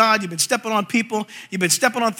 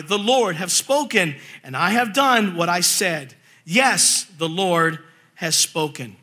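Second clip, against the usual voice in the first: deliberate, weighty prophetic reading; Scripture reading; slower than usual. Acted. Preacher reads God's promise to his people, solemn Scripture reading. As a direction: linger on the key words as you read.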